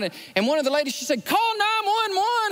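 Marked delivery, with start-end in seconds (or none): 1.2-2.5 panicked order. Retold or imitated. Panicked desk clerk calling out.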